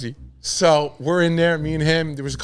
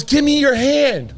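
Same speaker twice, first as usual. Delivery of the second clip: high, slow put-on stranger voice; drawn-out, higher stranger voice; imitated stranger; 9 semitones higher, 3 dB louder, slower than usual. Tall stranger at the rave asking for his hand, high and slow.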